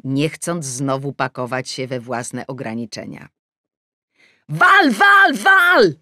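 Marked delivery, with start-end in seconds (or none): 4.5-5.9 very high, loud yelling; shout. Acted. Adam yelling at the footballer on TV, loud shout. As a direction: scream at the player to shoot. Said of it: "krzyknął Adaś".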